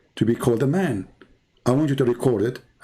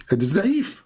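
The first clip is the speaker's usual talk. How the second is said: high, whiny mock of a stubborn debater; mocking Abdul; 6 semitones higher than usual. Mocking Abdul who dismisses every hadith, high whiny voice. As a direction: toss it off like a stubborn know-it-all.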